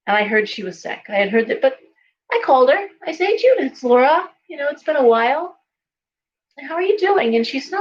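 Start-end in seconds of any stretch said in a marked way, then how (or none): 3.3-7.3 high, lilting phone hello; cheery check-in, acted out; friendly greeting. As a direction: greet an old friend, pitched well up.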